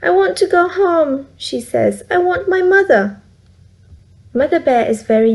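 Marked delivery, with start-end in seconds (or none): 0.0-3.2 put-on higher, mildly tearful child's plea; a touch of tears, pleading to go home; crying. A narrator's reading. Frightened Goldilocks begs the bears to go home, mildly tearful. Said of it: "Goldilocks is crying".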